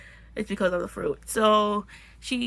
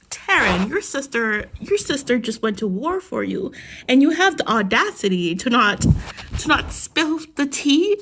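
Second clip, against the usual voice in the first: scolding; 2 semitones higher, 5 dB louder than usual. Acted. Scolding a book character.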